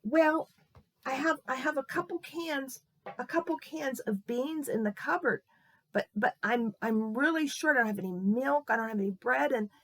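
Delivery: high-pitched, acted weepy voice; tearful old lady. Old lady thanks boy over five dollars, acted tearful. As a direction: explain hardship, moved almost to tears. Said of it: "She started to cry".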